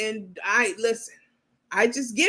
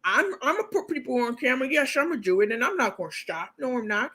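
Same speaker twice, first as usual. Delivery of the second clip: mock defiant host; 3 semitones higher, 3 dB quieter, faster than usual. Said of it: "She told us last week".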